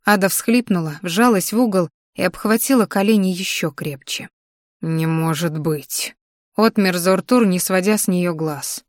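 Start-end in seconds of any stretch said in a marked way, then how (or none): 4.8-6.1 slow, hushed disbelief; stunned disbelief. Acted. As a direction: whisper it in shock. Dragon stunned. (ошеломлённо)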